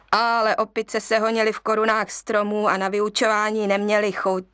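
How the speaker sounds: plain reading voice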